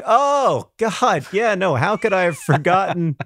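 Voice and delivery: high, amused mock disbelief; mock surprise. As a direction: play up rediscovering something embarrassing. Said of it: "It was like".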